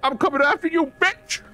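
shrill battle cry, high pitched; high yell. Real, not acted. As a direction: yell it as you charge. Charging enemy, yelling.

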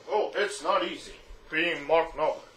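a hint of a rock star's talking voice; mumbled rock-star voice. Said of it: "How do people talk with that voice".

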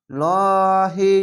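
লহি with a thick, heavy ল; heavy lam recitation. Shown as a demonstration. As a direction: say লহি with full, dark ল. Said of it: "তার জন্য মোটা করে পড়লাম". (মোটা করে লহি)

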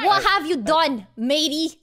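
mock British pirate; botched British accent with a pirate lilt; British accent turning piratey. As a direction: attempt British, land on pirate. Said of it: "Are you a pirate or?".

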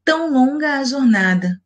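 haiku line read as one flowing phrase, slightly lifted; joined-up, lyrical reading of the line; poem reading. Acted. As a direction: recite the opening verse smoothly. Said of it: "no haikai da Helena Collodi".

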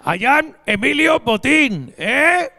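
slow, stilted English; a hint of a banker's clumsy English; halting English speech. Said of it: "vais a ver algo así".

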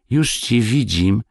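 put-on high, slow timid child's reply. A narrator's reading. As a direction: answer father shyly, drawing it out. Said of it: "z nieśmiałością wielką". (nieśmiały, wysoki głos dziecka)

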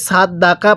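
সাত দাকা with plain s and open a vowels; সাত দাকা read with light, everyday consonants; common mispronunciation. Shown as a demonstration. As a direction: say সাত দাকা with an ordinary Bengali k. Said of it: "তাহলে পড়াটা সহিশুদ্ধ হবে না".

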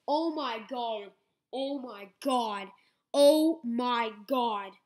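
shocked laughter. Real, not acted. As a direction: disbelief building to a shout. Reacting to 500K pull.

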